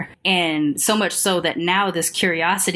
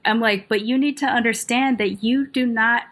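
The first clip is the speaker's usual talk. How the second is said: firm retold confrontation; 5 semitones higher than usual. Retells confronting the lady.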